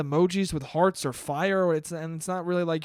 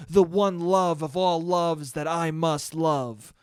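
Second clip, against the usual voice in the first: mock smooth poet; 5 dB louder than usual. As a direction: ham up the flattering poet, lightly. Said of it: "The guys who were like".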